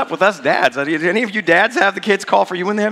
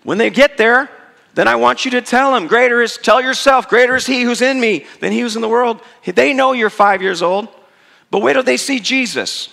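higher, louder fierce mother's command; hardcore mom; 7 semitones higher, 4 dB louder than usual. Retold or imitated. Mother arming her five-year-old against demons, fiercely commanding. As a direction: drill it into the boy like a battle order. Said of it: "my mom was hardcore".

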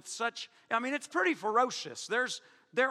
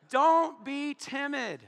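slow emphatic command; 6 semitones higher, 5 dB louder, much slower than usual. Acted. Preacher hammers scripture command.

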